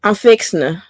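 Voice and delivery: "fixing to" run together as "fixna"; Southern phrasing. Shown as a demonstration. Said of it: "you in the South when you hear".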